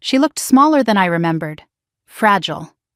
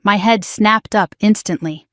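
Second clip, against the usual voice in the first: ordinary delivery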